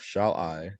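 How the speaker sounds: "shall I" with a light "shall" and the weight on "I"; unstressed, then stressed. Shown as a demonstration. Teacher showing an iamb in the sonnet, stress on the "I" of "shall I". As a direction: lean on "I", leave "shall" unstressed. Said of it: "so shall is unstressed".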